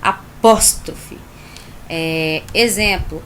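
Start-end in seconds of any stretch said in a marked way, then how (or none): 0.0-1.2 "apóstrofe" slow and loud, each syllable weighted; forceful apóstrofe. Shown as a demonstration. Teacher showing why the name sounds strong, loud and slow. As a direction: land hard on "apóstrofe". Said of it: "por isso tem esse nome forte".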